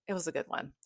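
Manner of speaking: soft whispered aside. Real, not acted. To viewers, a whispered aside after the rating. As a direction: breathe it like a secret.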